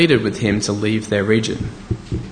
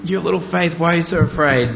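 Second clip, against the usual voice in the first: higher, pressing rebuke; shaking rebuke; 5 semitones higher than usual. Shown as a demonstration. Pastor trying an exasperated reading of Jesus' words. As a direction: shake the disciples with it. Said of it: "wanting to shake these disciples".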